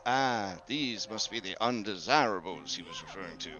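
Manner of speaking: low, soft, falling mumble; muttered under breath. Acted. Investor muttering about undesirables to a companion, hushed. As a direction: mumble it privately, letting the level sink. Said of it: "mumbles under his breath to you".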